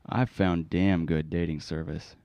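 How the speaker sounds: put-on a lightly accented scam pitchman; spam caller. Prank caller pitches a dating service to the host, lightly accented.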